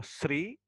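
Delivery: "sri" with an s sound opening it; "sri" as a demonstrated variant; alternative "three" pronunciation. Shown as a demonstration. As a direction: say "sri", s then r, drawn out. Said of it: "atau tree bisa".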